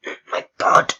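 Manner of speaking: whispered oh my god; whispered exclaim. Real, not acted. Gamer stunned by chatbot's answer, whispered. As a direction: breathe it out in disbelief. Reacting to bot's odd reply.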